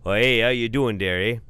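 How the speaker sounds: put-on loud Upper Peninsula uncle in a Fargo accent; crazy Manitoba-ish Fargo accent, booming. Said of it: "Manitoba-ish sounding Fargo accent".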